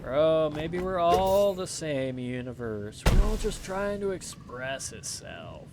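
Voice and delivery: slow, dreamy stoner drawl; slow spaced-out hippie musing. Pretend. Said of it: "start talking like a hippie".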